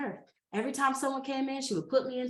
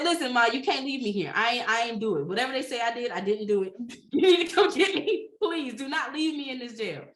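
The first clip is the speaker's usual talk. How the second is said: pleading; 2 semitones higher, 5 dB louder than usual. Retold or imitated. Begging mother over FaceTime.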